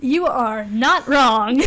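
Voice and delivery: slow, laughing agreement; drawn out through laughter. Real, not acted. Agreeing with her friend while laughing.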